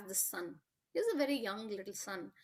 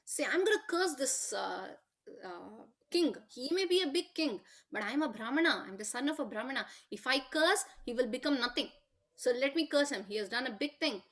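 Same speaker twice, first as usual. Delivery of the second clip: mildly hammed-up defiance, louder in bursts; retold angry threat; 2 semitones higher, 4 dB louder than usual. Rishi's son vowing to curse the king, retold with indignant anger. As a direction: voice an offended son's threat, lifting the key phrases. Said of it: "was very angry".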